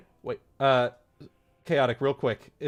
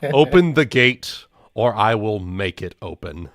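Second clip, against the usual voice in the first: mock threat; 3 semitones lower, 8 dB louder than usual. Character threatens the gate.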